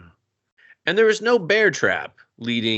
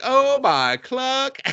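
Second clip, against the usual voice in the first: much higher, very slow drawn gasp; hammed-up shock; mock gasp; 13 semitones higher, much slower than usual. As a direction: stretch it out shocked. Crowd gasps at jump.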